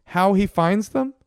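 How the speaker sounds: high, baffled question to the producer; confused appeal; puzzled call out. Real, not acted. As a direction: call out for help. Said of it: "Did we miss that".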